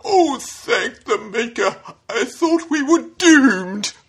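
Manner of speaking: high, slow fretful android; prissy panicked robot voice; fussy robot. Shown as a demonstration. C-3PO style nervous robot.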